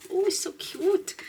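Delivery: breathless, gasping between words; slightly winded delivery; out of breath. Real, not acted. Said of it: "Why am I so out of breath?".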